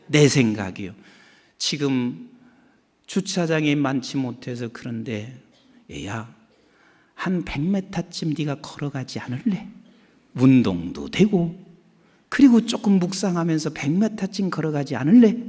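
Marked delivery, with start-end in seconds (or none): 5.9-15.5 gentle divine voice. Retold or imitated. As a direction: coax the child tenderly. God's gentle voice quoted.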